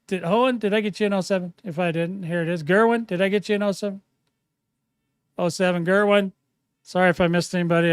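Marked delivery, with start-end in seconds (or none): 2.6-7.9 talking while chewing gum; words round a wad of gum. Real, not acted. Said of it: "It's hard to talk and chew gum at the same time".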